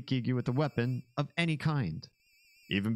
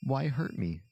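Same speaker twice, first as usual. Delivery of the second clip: lightly voiced whiny villain, higher pitch; 8 semitones higher than usual. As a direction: plead like a hurt alien. Voicing wounded villain.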